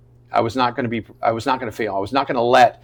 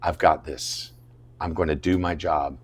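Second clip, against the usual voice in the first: quiet self-assurance; 5 semitones lower, 6 dB quieter than usual. Retold or imitated. Self-talk against creeping doubt.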